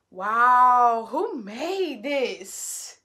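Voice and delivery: hushed, slow wonder; awed whisper. Real, not acted. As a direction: breathe it out, amazed. Amazed by the drink.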